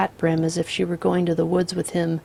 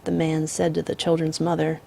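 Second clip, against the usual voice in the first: calm drawling outlaw; 5 dB louder than usual. Acted. The Misfit voiced in story.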